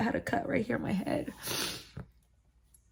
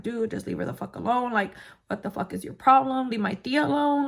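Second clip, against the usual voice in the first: retold angry confrontation. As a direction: step in to defend, raising the voice. Relative steps in to confront attacker.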